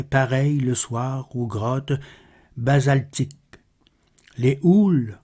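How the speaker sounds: measured, solemn poem reading; poetry recitation. Acted. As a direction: recite the verse with deliberate pauses between phrases. (récitation de poème, posée et solennelle)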